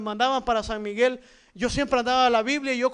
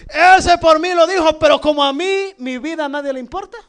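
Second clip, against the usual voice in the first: put-on childish resentment; 2 semitones higher, 8 dB louder than usual. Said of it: "Y habla como niño".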